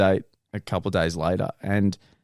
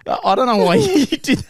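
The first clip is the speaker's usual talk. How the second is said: deadpan echo; 12 semitones higher, 4 dB louder than usual. Retold or imitated. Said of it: "And I'm like".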